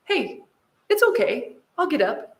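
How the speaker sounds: high, sweet imitation of a little boy; lightly voiced agreeable kid; obliging child. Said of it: "The one that was in the seat said".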